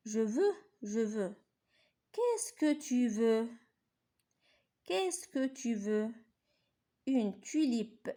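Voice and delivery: slow, measured poem recital; poem reading. Shown as a demonstration. Teacher reciting the poem Je veux to pupils, slow. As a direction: read the poem slowly, line by line. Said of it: "غنقرا لكم".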